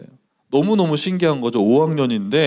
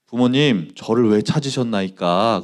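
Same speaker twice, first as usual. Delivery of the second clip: calm, unbothered; 4 semitones lower than usual. Acted. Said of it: "너무너무 태연하게 이렇게 얘기하는".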